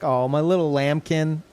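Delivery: lightly doting lambkin; doting on a darling; term of endearment. Retold or imitated. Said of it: "term of endearment kind of way".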